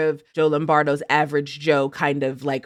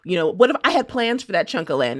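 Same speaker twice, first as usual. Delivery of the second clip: mock Lombardo; 4 semitones higher than usual. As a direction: grumble it like a land-hungry governor. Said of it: "the consistency is like".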